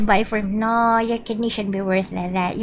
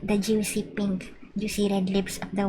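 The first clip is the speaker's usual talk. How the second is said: creepy; 6 dB quieter than usual. Acted. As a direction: savor each word like a creep. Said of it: "I sound so creepy".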